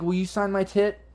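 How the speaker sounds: high, excited gushing fan voice; breathless star-struck squeal; starstruck fan. Acted. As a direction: gush like a dazed fan recognizing a star. Fan asks for autograph.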